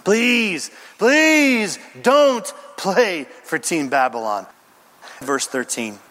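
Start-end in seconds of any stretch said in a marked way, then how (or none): 0.0-4.5 slow, drawn-out plea; pleading. Acted. Preacher voicing the third angel's warning, pleading. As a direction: beg them, stretching each please. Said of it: "He's pleading".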